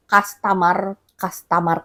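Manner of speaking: "customer" said with a clear open "a", kas-TA-mar; mispronounced customer. Retold or imitated. Vlogger quoting the viral shopper's mistake, mispronounced. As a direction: say "customer" as kas-ta-mar, full vowel in the middle. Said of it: "bukan customer".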